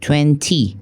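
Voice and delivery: British "twenty" with both t sounds said. Shown as a demonstration. Teacher contrasting the British "twenty" with the American one.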